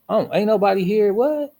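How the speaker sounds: high-pitched retold bewilderment; baffled surprise. Storyteller reliving waking with nobody there, high and baffled. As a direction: act out a puzzled, rising double take.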